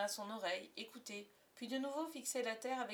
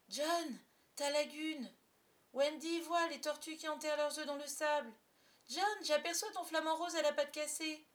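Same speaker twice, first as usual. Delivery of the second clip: put-on excited child calls; 5 semitones higher, 5 dB louder than usual. Children excitedly spot island places.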